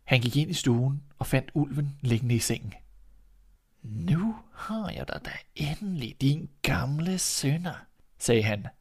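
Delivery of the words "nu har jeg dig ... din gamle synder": softer, slow, satisfied hunter; hunter's gloating. Acted. Hunter to the sleeping wolf, soft and slow. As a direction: finally caught you, savor it quietly.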